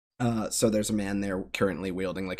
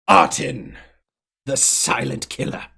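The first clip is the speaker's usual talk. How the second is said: arena announcer; 3 semitones higher, 6 dB louder, slower than usual. Acted. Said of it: "That's a really hard voice".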